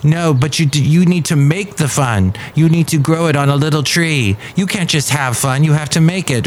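hint of German accent; teasing German scolding, lightly done. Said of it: "doing the German accent".

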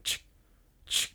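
soft crunching footstep noise; imitated footsteps. Narrator imitates footsteps heard in the snow, soft sound effect. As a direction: softly voice each step in snow. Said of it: "footsteps in the snow".

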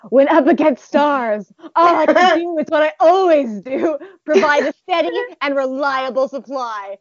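grand, overly dramatic declaration; dramatic Akashi. Retold or imitated. Fan voicing the setter's inner resolve, hammed-up dramatic declaration. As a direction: ham it up like a solemn vow. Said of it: "I'm not sure he said it in that tone of voice".

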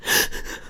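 gasp. Retold or imitated. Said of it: "I used to be like".

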